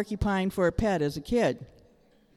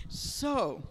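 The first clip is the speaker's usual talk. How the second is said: whisper; 5 semitones higher, 7 dB quieter than usual. Real, not acted. Whisper after tears.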